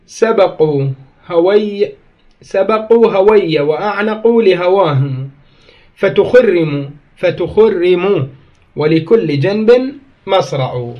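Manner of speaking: slow recited verse; chanted classical verse; poem recital. Acted. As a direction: declaim the line of poetry. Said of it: "وقال الهذلي".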